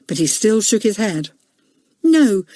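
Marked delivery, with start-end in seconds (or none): 2.0-2.4 obstinate. Acted. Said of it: "he said obstinately".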